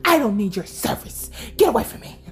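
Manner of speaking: mock brush-off, rising. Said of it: "I was all like".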